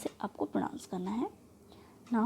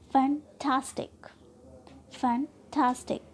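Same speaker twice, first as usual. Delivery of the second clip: फैंटास्टिक with TAS stressed; second-last syllable stressed. Shown as a demonstration. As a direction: break after 'फैं', hit 'टास' in फैंटास्टिक. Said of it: "syllable पर trust कर रहे हैं". (फैंटास्टिक में 'टास' पर ज़ोर)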